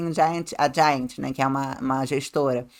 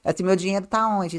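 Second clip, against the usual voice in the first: pleading client; 3 semitones higher, 4 dB louder than usual. Retold or imitated. Client voiced wanting contact.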